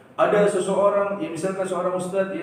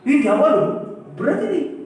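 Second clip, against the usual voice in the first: alarmed exclamation; 9 semitones higher, 5 dB louder than usual. Real, not acted. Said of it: "exclaiming about danger".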